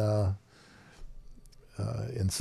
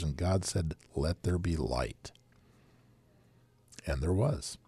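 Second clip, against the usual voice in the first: solemn scripture reading; booming biblical narration. Shown as a demonstration. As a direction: read it like the King James pulpit. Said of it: "Read the first two verses".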